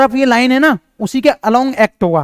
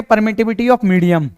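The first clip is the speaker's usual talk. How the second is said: dictation; 2 semitones lower, much slower than usual. Shown as a demonstration. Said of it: "इसको क्या बोलेंगे?".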